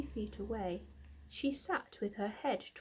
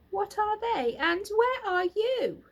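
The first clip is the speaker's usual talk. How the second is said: high, loud frantic yell; screamed; 10 semitones higher, 7 dB louder than usual. A narrator's reading. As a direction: yell it out, desperate. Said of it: "screamed Wilbur".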